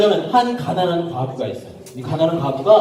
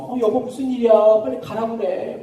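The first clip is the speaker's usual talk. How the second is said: grumbling wife; 3 semitones higher than usual. Acted. Wife woken at night telling husband off, mildly annoyed.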